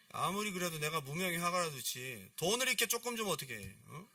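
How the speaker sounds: mildly indignant acted complaint; offended grumble. Unknown painter grumbling about his fee, offended. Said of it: "기분 나빠서 안 해".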